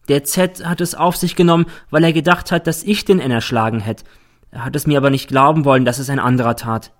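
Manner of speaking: a hint of a girl explaining herself; lightly voiced girl witness. Girl testifying in court. (leicht angedeutete Mädchenstimme)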